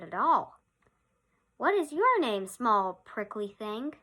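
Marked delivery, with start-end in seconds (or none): 1.6-4.0 loom over him, slowly and unkindly; unkind rhinoceros. Acted. Rhinoceros taunting the little porcupine, slow unkind voice. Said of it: "asked the rhinoceros unkindly".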